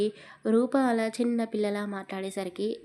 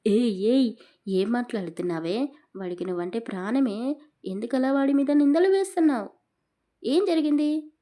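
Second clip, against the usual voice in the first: scolding grandmother; 3 semitones higher, 6 dB louder than usual. Acted.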